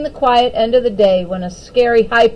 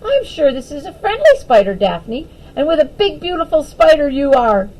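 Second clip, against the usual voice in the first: excitedly; 4 semitones higher than usual. Acted. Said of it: "she said excitedly".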